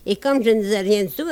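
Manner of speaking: quick patter, tossed away; rattled off fast. Acted. Comic singer rattling off the refrain, fast patter. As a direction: rush through the refrain line.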